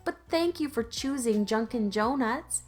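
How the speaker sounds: sickly sweet. Acted. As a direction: lay on exaggerated politeness for the customer. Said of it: "the most sickly sweet voice I could muster".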